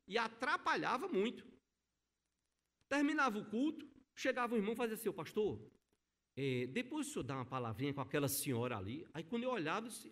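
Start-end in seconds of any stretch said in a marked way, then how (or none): 5.1-9.1 lightly voiced elder, murmuring discreetly to the pastor; quoted church elder.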